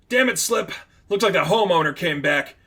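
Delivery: high, urgent warning to a partner; alarmed call. Acted. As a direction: sound the alarm. Figment alarmed calling partner.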